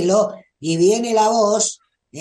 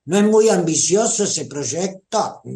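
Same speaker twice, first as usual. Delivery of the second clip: a little tone. Retold or imitated. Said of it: "Con cierto tonito".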